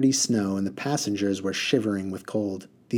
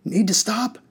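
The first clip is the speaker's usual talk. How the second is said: bellowed; 11 semitones higher than usual. A narrator's reading. Driver bellowing over his shoulder at the passengers. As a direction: roar it back at the passengers. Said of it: "he bellowed over his shoulder".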